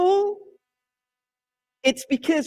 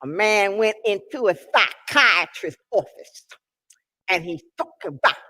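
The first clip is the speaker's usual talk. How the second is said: Moms Mabley routine. Retold or imitated. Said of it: "She said".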